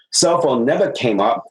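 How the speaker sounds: ordinary delivery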